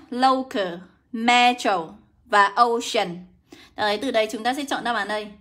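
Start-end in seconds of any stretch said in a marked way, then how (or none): 0.1-3.2 "Local", "metro", "ocean" slowly, each with a long oh; spaced, careful "Local", "metro", "ocean"; pronunciation demo. Shown as a demonstration. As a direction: model "metro" and "ocean" word by word with oh. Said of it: "được đọc là âm o nhá".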